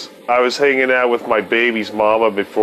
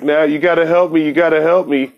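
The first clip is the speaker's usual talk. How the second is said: high, fast pleading; a mock frantic plea for help; desperate plea; 8 semitones higher, faster than usual. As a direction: beg him urgently. Guy pleading urgently.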